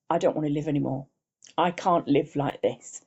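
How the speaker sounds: slowing, real emotion catching in the voice; a touch of real grief, slowed; emotional. Real, not acted. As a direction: relive the despair, holding back tears. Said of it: "sorry, I'm getting emotional now".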